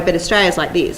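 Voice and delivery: dropped-jaw Australian accent; Australian accent demo. Shown as a demonstration. Actress contrasting it with American speech, dropped-jaw Australian accent. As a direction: drop the jaw and speak broad Australian. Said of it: "because Australia, we drop the jaw".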